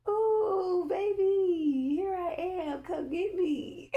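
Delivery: very high, laughing come-on; giddy flirting. Real, not acted. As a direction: call him over through giggles. Flirting with the imagined man.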